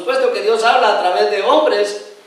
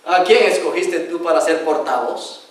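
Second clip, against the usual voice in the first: stern God; 5 semitones lower, 4 dB quieter than usual. Acted. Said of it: "dijo Dios".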